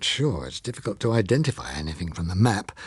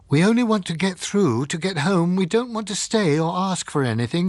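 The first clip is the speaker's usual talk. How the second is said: calling out; 8 semitones higher than usual. Acted. Phyllis calling to the unseen guard, raised pleading voice. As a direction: call out to a hidden stranger. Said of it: "she called back to the unseen man".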